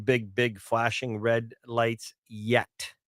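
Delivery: slow, with weight landing on "yet"; slow and deliberate, punching the final "yet"; stress on yet. Shown as a demonstration. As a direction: lean hard on "yet" to warn it's coming. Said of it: "I stress the word yet".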